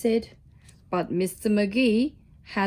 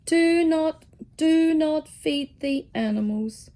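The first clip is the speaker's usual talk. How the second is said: stern warning; 4 semitones higher than usual. Acted. Notice board repeats warning emphatically.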